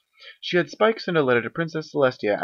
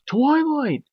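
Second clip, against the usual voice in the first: very high, loud little dragon calling; high loud frantic call; urgent calling; 5 dB louder, much slower than usual. Acted. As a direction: shake her awake, yelling her name. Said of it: "Spike called".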